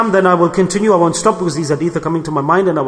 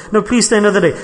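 insistent plea; 4 semitones higher, faster than usual. Retold or imitated. Host insisting to the departing guest, mock pleading. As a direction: insist warmly, don't let them go. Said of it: "No, no, I've got to go".

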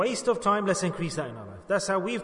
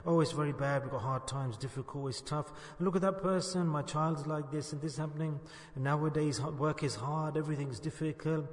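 lightly weary grumbling, sinking softer; mock complaining; 4 dB quieter than usual. Someone asked how they are, mildly complaining about hard times. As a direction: grumble through a list of hardships. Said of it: "we'll complain to Allah first".

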